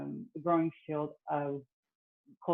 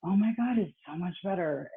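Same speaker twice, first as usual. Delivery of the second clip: excited; 3 semitones higher than usual. Retold or imitated. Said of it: "the other part of me would get really excited".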